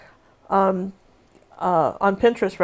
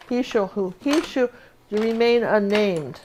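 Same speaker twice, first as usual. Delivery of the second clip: mock solemn decree; slower than usual. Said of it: "How's that?".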